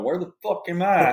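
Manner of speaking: lightly done Bill Clinton impression. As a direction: play a lost old politician, up high. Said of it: "I have a Bill Clinton voice".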